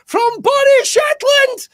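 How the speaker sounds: slow, high ring-announcer call; announcer shout. Acted. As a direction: stretch it out like a boxing announcer. Host announcing guest.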